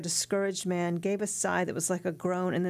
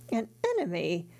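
angry exclamation; 3 semitones higher than usual. Acted. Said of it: "Mercedes exclaimed, looking angrily".

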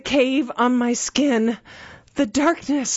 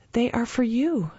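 calm and even, softly; steady; 4 dB quieter than usual. Acted. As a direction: say it steadily, without fear. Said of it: "she said steadily".

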